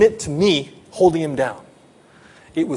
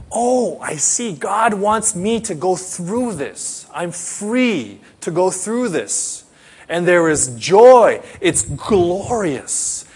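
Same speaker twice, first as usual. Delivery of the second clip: slow dawning realization; 3 semitones higher, slower than usual. Acted. Believer's realization, voiced.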